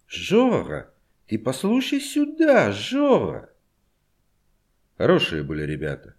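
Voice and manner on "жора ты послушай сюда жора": high, calling Odessa lilt; Odessa Russian. A narrator's reading. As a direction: call out to Zhora, Odessa style. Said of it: "Окликал его с одесским говорком".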